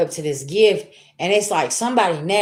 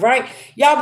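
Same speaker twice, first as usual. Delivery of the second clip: ordinary delivery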